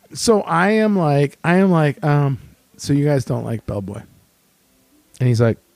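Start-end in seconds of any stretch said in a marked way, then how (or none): 2.7-4.0 shy, meek, hesitant, timid delivery. Retelling asking the staff at the register a question: imitating own timid voice. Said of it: "just a timid child".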